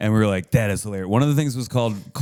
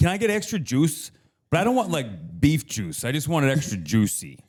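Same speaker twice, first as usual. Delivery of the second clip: put-on heavy, thick Chicago accent, high and swooping; 5 semitones higher than usual. Retelling what a woman said while ordering, in a thick chicago accent. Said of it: "a thick Chicago accent".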